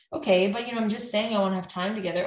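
imitating a mildly exasperated partner; bickering partner. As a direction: push back, a little fed up. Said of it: "it's just the tone of voice, the rate of speech".

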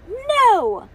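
high, loud "no"; toddler's angry refusal. A narrator's reading. Toddler hitting Ivy with doll, high loud refusal. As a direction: shout it like a toddler lashing out.

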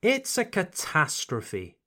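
It's a catastrophe with catastrophe as kuh-TAS-truh-fee; model for repeating. Shown as a demonstration. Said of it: "One more time".

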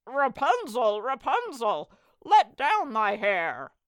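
loud, high shout up to the tower; prince's bold ringing call. A narrator's reading. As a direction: project hard, last words stretched slow. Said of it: "went to the tower and cried".

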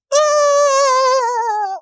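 high, loud, sustained banshee wail; mocking the flying scream again. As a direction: let out a long piercing banshee wail. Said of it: "wings going".

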